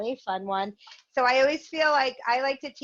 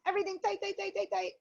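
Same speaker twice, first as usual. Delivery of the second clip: high, softer held-in chant; squeezing tight; 11 semitones higher, 4 dB quieter, faster than usual. Shown as a demonstration. Teacher cueing the whole body to tense, squeezing tight. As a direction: clench everything as you repeat it. Leading a muscle tensing exercise.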